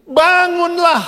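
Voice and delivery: high, loud, drawn-out order; divine command. Acted. The Lord to a helpless sick man, a ringing command. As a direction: command the sick to rise, stretching the word. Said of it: "Tuhan itu bilang begini".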